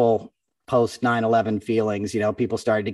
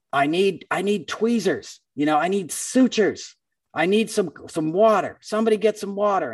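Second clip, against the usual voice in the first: retold yelling; 8 semitones higher than usual. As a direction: call out urgent demands in a raised pitch, imitating someone yelling. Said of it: "somebody's yelling".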